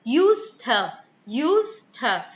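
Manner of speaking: "used to" as one word, "yoos-tuh", weak ending; elided "used to". Shown as a demonstration. Teacher repeats the elision, "used to" joined as "yoos-tuh". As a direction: merge "used to", stressing the first syllable. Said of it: "losing sounds when they come together".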